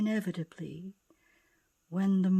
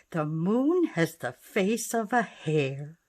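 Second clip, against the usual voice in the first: affectionate; 2 semitones lower, 3 dB louder than usual. Acted. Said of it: "old Ma Bear said affectionately".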